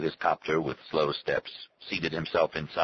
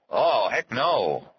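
promise; 6 semitones higher, 5 dB louder, much slower than usual. A narrator's reading. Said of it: "Arnie promised".

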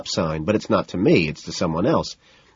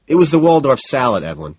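through clenched teeth; 5 semitones higher, 5 dB louder than usual. A narrator's reading. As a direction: force it through gritted teeth. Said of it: "teeth clenched".

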